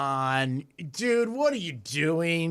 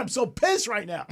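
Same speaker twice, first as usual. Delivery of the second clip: laughing annoyance; 5 semitones higher than usual. Real, not acted. Laughs while ranting.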